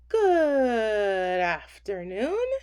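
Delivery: slow, drawn-out screech of a greeting; screeching cicada. A narrator's reading. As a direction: stretch it like a cicada on a branch. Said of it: "screeched a cicada".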